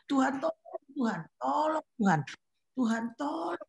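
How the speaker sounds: whispered, tearful cry for help; crying prayer. Retold or imitated. Praying to God after the rebuke, whispered crying. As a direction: break into a whispered sob of Tuhan tolong. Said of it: "saya nangis lagi sama Tuhan".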